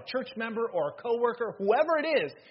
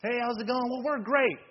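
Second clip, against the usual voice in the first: higher-pitched, put-on pleasantness; fake cheerful greeting; 5 semitones higher than usual. Quarrelling couple greeting people at church, fake cheerful. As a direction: chirp it as if all is fine.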